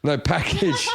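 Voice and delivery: PACKAGE said with its full final "-idge"; clarifying pronunciation. Real, not acted. Comic corrects a misheard word, clarifying PACKAGE with its "-idge" ending. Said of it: "I thought you said packy".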